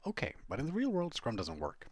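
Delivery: mock doubtful student objecting, rising then dropping; sceptical classroom quote. Trainee in the classroom doubting Scrum, mock sceptical. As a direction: play a sceptic brushing Scrum off.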